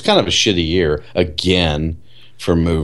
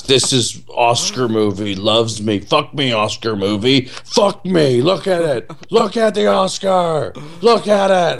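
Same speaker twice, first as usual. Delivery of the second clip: mock Angelina Jolie; 4 semitones higher than usual. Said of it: "And she goes".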